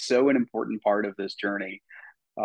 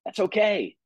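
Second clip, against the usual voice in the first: playful self-talk; 10 semitones higher than usual. Retold or imitated. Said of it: "it's like".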